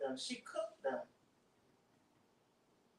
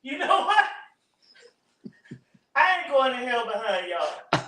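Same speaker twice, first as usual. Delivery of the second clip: loud exclaiming; 5 semitones higher, 11 dB louder than usual. Real, not acted.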